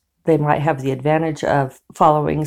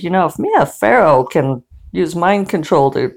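laughing through a quote; 2 semitones higher than usual. Retold or imitated. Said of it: "the person who wrote the article said".

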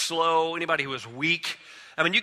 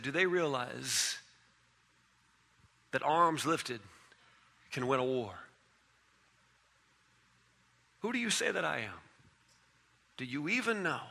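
much softer, low and searching; hushed question; 5 semitones lower, 9 dB quieter than usual. Acted. Pastor voicing Jesus asking the disciples, hushed and searching. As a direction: lean in and ask it almost under the breath.

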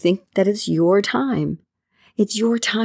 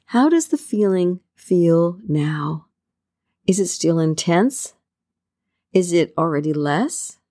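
guided meditation. Acted. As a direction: ease the listener into calm with long pauses.

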